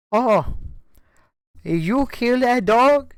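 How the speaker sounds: high, drawn-out mock Spanish woman. Spanish woman asking the driver about a dead dog, high imitation. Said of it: "out comes a nice Spanish woman".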